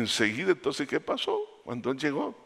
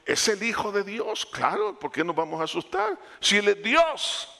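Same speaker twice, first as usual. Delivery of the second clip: imagined disciples' reply; 7 semitones higher than usual. Retold or imitated. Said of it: "En lugar de, de llegar a una conclusión".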